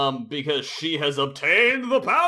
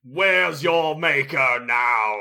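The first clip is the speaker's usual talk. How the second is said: slow menacing villain; villain taunt; slower than usual. Acted. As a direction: taunt like a gloating tyrant. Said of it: "voicing villain taunt".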